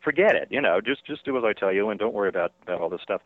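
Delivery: director Whale. Retold or imitated. Director Whale telling Rains he has no face, mildly mocking. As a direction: brush the actor off with mild amusement. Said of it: "Whale says".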